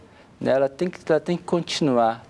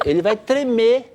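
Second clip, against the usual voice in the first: ordinary talk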